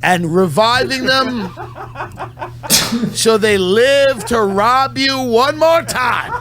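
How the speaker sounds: mock-proud laughing rant; laughing speech. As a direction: break into laughs while you speak.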